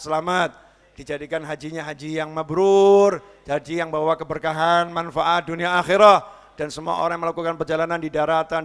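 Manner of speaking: measured, chanting prayer cadence; closing du'a. Acted. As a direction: bless the congregation in steady prayer. (doa penutup yang khidmat)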